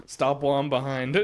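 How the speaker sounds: loud laugh through the words. Real, not acted. Gamer laughing at his own blunder, loud. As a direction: laugh out the line at yourself.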